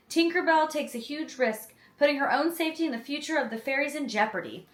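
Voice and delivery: lively, lifted read of a film blurb; synopsis read-aloud. Real, not acted. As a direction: read it out like a back-cover summary.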